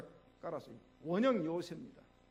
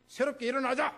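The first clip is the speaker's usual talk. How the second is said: raised, loud family pep talk; rallying cry; 6 semitones higher, 5 dB louder than usual. Acted. Father-in-law rallying the family after a sermon, loudly. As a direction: urge everyone to rise up.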